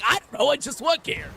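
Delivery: put-on old lady voice. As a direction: play a laid-back little old lady. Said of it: "And I do my old lady voice".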